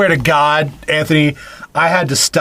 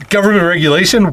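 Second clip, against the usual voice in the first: incredulous; 5 semitones higher than usual. Real, not acted. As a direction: throw the phrase back in disbelief. Repeats phrase in mocking disbelief.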